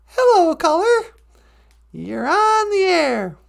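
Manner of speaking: high, sing-out call-in host; radio host. Pretend. Host greeting a caller on air, showy.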